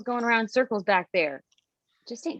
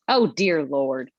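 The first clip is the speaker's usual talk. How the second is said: exasperated sigh; 6 semitones lower, 4 dB louder, much slower than usual. Acted. Betsy exasperated about the mask.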